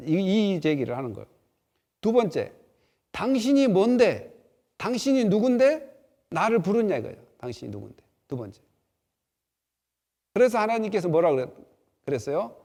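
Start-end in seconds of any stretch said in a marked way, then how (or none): 3.1-7.0 indignant challenge. Acted. Moses challenging God.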